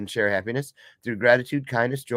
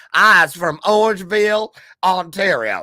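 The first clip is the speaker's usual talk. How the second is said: slow, high, put-on Southern accent with drawn-out vowels; 5 semitones higher, 4 dB louder than usual. Repeating one's own words from introducing a guest: put-on southern accent. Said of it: "why did I wanna sound Southern".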